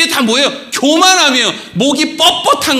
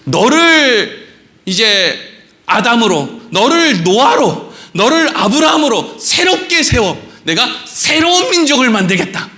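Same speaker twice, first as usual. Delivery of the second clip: half-acted angry God, rising to a shout; a hint of a thundering God; God's voice. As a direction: play God fed up with his people. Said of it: "하나님 뭐라 그래".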